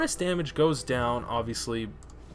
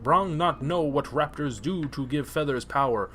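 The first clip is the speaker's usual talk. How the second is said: lightly voiced ogre. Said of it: "Brog accepts the feathers".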